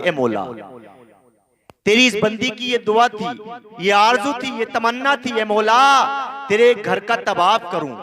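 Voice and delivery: a lightly voiced worn-out woman pleading; pleading prayer. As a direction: beg ए मौला, voice climbing with each call. Rabia prays to God, exhausted.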